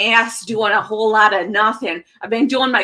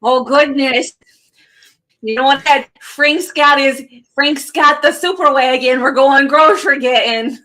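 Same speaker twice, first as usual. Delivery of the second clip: put-on light Midwestern accent. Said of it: "I'm not used to doing the Midwestern accent".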